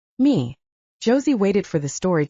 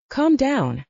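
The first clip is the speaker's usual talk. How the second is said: soothing; 7 semitones higher than usual. Acted. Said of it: "Josie soothed".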